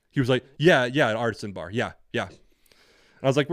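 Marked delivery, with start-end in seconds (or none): 0.6-2.3 dismissive retold yeahs, falling away; irritated. Interviewer hearing the applicant use the word artisan, irritated. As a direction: imitate an irritated brush-off, loud at first. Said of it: "you could tell he was irritated".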